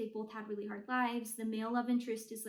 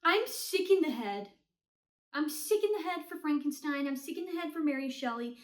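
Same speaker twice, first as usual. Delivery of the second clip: obsessed gushing; 3 semitones higher, 4 dB louder than usual. Real, not acted.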